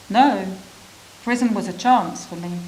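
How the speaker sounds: firm No, then stressed chance; quoted with emphasis. Retold or imitated. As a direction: press the words hard. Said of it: "You say this with emphasis".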